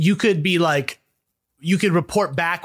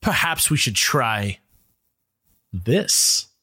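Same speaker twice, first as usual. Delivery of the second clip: sinister scientist; 10 semitones lower, slower than usual. Retold or imitated. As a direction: murmur it like a mad scientist. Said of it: "people that were like".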